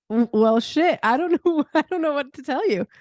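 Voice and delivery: laughing through a retold flustered reply. Answering the question about who she is with a flustered laugh. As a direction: stammer it out with a laugh breaking in.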